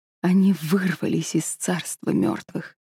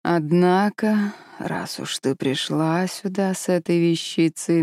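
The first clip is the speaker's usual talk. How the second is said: quiet dragon voice; slower than usual. Acted. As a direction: speak slowly and quietly, like a looming dragon. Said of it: "тихо сказал". (тихий медленный голос дракона)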